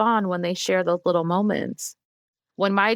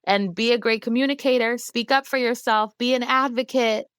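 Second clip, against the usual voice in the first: mock cheerful send-off; 6 semitones higher than usual. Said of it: "and then say".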